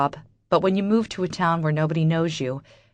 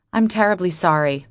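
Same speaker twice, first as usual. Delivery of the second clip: insincere apology; 4 dB louder than usual. Acted. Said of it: "If my voice sounded like I meant that".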